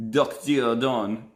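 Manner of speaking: slow, put-on French pronunciation; playful French accent; fake French accent. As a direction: draw it out in a mock French accent. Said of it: "French fake accent".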